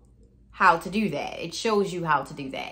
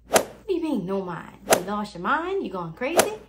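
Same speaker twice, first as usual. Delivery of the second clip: mock incredulous. Listener questioning her about no mind, mock incredulous. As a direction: pitch leaps on disbelieving questions. Voicing the baffled listener's reaction.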